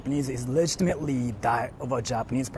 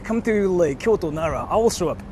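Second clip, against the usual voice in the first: casual; 3 semitones higher, 4 dB louder than usual. Retold or imitated. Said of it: "You can just tell me".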